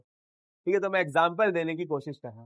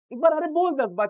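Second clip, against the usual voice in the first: high, loud command to repeat; teacher bellowing at students to chant it; shouting at students; 10 semitones higher, 5 dB louder than usual. Real, not acted. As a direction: yell it out to the class. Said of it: "तेज चिल्ला चिल्ला के बोल".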